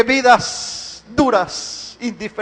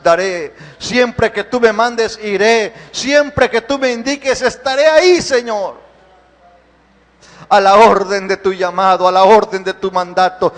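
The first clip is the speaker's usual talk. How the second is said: fervent prayer; 3 semitones lower than usual. Acted. Pastor praying over the church in an impassioned worship service. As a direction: pour it out to God, swelling then sinking low.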